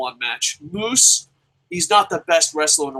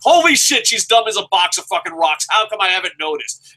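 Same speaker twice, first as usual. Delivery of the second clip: mock shocked; 4 semitones higher, 3 dB louder than usual. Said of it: "you're like".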